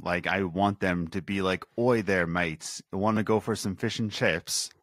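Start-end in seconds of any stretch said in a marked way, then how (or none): 1.8-4.7 a hammed-up British accent, pub-chat style; mock British accent. American host mocking British game dialogue in a British accent. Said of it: "I want a British game".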